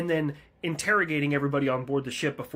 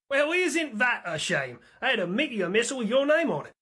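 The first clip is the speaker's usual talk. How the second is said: mock disappointment; 11 semitones higher, 5 dB louder than usual. Pilot mockingly regrets the Russians leaving, high and sarcastic. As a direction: sigh over the missed shot.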